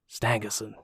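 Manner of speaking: Stangerson in a bad American accent. Shown as a demonstration. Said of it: "in my worst American accent".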